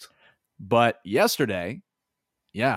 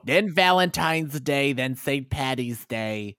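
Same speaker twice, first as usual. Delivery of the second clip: slow listing; slower than usual. Acted. Listing holidays slowly in order.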